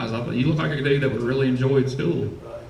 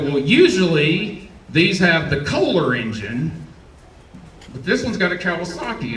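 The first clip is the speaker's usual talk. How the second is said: through gritted teeth. Retold or imitated. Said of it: "I'm speaking through my teeth".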